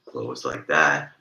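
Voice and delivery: nose pinched, slow and pinched off; holding nose shut. Shown as a demonstration. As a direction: talk with your nose held closed. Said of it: "hold my old nose closed like that".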